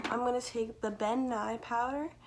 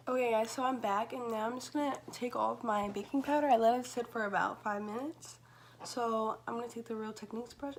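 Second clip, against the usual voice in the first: talking around a retainer; speech slightly thick from retainer; wearing a retainer. Real, not acted. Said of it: "I'm talking weird because I have my retainer in".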